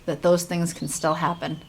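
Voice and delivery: earnest young heroine, lightly voiced. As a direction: read it as the game's heroine. Reads heroine's lines in game.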